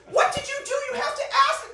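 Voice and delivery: high, loud reprimand; scolding manager. Retold or imitated. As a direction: tell off the screener.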